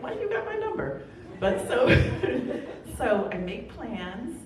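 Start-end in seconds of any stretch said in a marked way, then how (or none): 0.0-1.0 laughing mock question.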